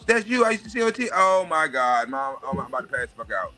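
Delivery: put-on high, breathless kid meeting Mickey, pitch shooting up; overexcited child. Child meeting Mickey Mouse at Disneyland, squealing with excitement. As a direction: gush like a starstruck child who can't believe it. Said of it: "But if you a child".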